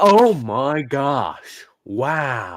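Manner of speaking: wow stretched long and drawn out. Reacting to an AI mimicking an excited tone, the speaker does an Owen Wilson wow impression. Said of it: "Owen Wilson enters the chat".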